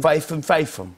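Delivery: "Statham" with Cockney F; Cockney accent. Shown as a demonstration. Host plays with actor's surname, Cockney accent. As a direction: play with a Cockney TH-as-F. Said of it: "they say F".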